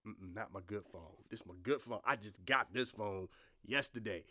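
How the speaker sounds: low, hushed disbelief; teacher mourns his smashed phone; teacher upset over phone. Retold or imitated. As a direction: tut over the broken phone. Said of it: "oh, my God".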